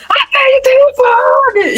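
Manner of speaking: high-pitched, drawn-out mock yell from afar; mother yelling. Mother in the garage to her daughters, high imitated yell. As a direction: imitate mum calling out from the garage. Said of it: "minha mãe lá na garagem gritando".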